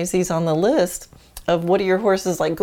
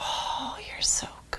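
soft, gentle, warm tone, much quieter. Demonstrating one style of praising a dog: soft praise. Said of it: "So there's soft praise".

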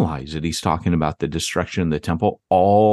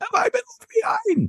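very high-pitched, shrill shrieking scream; 3 dB quieter than usual. Retelling what Pete screamed, imitating Pete's high-pitched scream. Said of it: "in a high pitched voice screaming".

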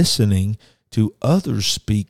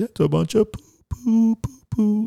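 very high-pitched, slow, stretched-out drawl; 13 semitones higher than usual. Imitating how a podcast host says a phrase: imitating the guy from a band. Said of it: "the way, uh, the guy from a band, uh, does it on his podcast".

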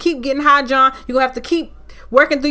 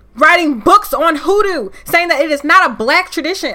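furious, angry yelling shout; 3 semitones higher, 4 dB louder than usual. Podcast host upset about how hoodoo is represented, yelling angrily. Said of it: "I'm sorry I'm yelling".

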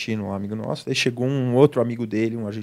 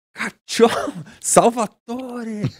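play-acted, very high, hollering yell; 11 semitones higher, 3 dB louder than usual. Retelling how the brother in Rome shouted at a man, retelling a shout. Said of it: "Dá um grito".

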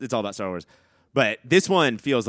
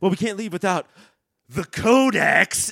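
acted-out, high-pitched screaming; 9 semitones higher, 4 dB louder than usual. Retelling how a show character screams a line: imitating someone screaming. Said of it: "and she screams".

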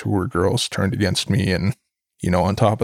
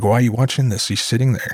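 put-on old woman's sharp, yelling scolding tone; 3 semitones higher than usual. Retelling the grandmother yelling at the grandfather: imitating grandmother yelling. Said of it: "just yelling at him".

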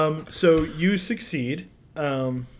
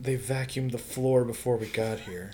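muttered quietly under the breath; 4 semitones lower, 5 dB quieter than usual. Voicing a man's remark while narrating a scene, muttering under his breath. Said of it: "just under his breath".

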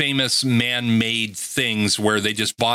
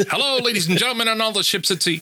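heavy mid-Atlantic announcer accent, pitched very high; 11 semitones higher than usual. Picturing a man broadcasting from an island, speaker voices him: very thick mid-Atlantic accent. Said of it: "With a very thick mid-Atlantic accent".

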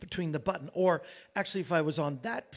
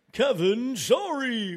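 put-on announcer voice, higher and louder; 7 semitones higher, 8 dB louder than usual. Retelling how Larry answers his calls: imitating Larry's announcer voice. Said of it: "with his announcer voice".

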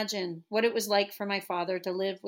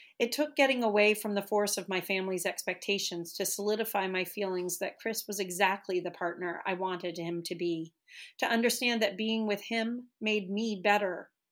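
plain reading voice

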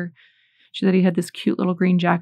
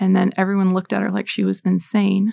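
usual speaking voice

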